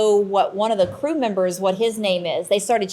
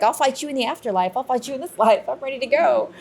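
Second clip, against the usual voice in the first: higher, playful combative vow; retold fighting challenge; 4 semitones higher than usual. Medium challenging the priest's spirit to fight, combative. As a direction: throw down a challenge, half laughing. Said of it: "I was ready to fight him".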